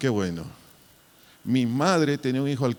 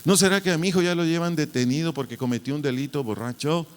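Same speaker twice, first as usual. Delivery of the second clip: a hint of a worried mother, quick and higher; 3 semitones higher, 4 dB louder, faster than usual. Preacher imitating his anxious mother, rushed. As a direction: lightly voice his mother fretting over sirens.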